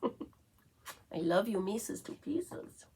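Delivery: cooing. Real, not acted. Cooing to her dog.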